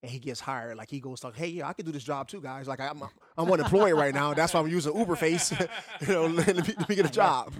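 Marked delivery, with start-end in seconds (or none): 1.3-7.5 laughing through a made-up quote; chuckling while voicing the Uber guy.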